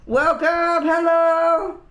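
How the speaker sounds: very high, sing-out greeting; excited welcome. Real, not acted. Streamer welcomes a new viewer, excited high greeting. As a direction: call out a big, high-pitched hello.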